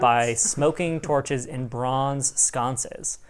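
measured scene-setting read; game master narration. A narrator's reading. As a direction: set the scene for the players.

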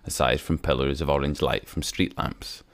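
ordinary delivery

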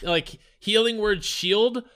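laughing through the words, slowed right down; cracking up mid-sentence, slow and high. Real, not acted. Laughing while recounting the ambush.

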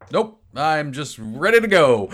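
loud, high, drawn-out comic declaration; playful over-the-top readiness; mock-eager outburst. Real, not acted. Player jokily announces being ready to go.

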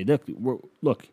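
loud, fast sarcastic jab; mock yell at sky. Comedian yelling sarcastically at Jesus for a miracle. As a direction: taunt the heavens with a loud sneer. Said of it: "I just yell up at the sky".

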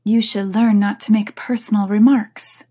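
stern, clipped reproach in a whisper; severe. Acted. Alice reproaching the Hatter with some severity, whispered. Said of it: "with some severity".

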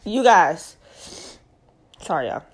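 winded, breathing heavily; out of breath, sighing. Real, not acted. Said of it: "I'll be out of breath".

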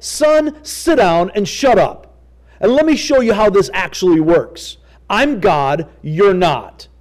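a hint of a stern God putting Job in his place; firm, blunt, mildly voiced rebuke; God's stern rebuke. Preacher voicing God scolding Job, mild stern rebuke. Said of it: "that is the tone that you see".

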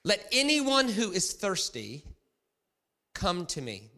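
high, loud, drawn-out scripture proclamation. Acted. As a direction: call it out slowly to a festival crowd. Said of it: "said in a loud voice".

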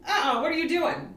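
high, incredulous wife; wife refusing. Retold or imitated. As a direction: push him off, incredulous.

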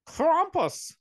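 Krampus cried high in a put-on German accent; mock German accent. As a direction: exclaim Krampus like an over-the-top German. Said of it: "My accent sounds a, sounds a little bit more Dutch".

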